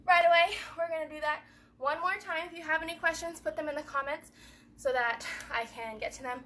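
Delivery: out of breath; winded, talking between breaths; running out of air. Real, not acted. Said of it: "I'm running out of breath".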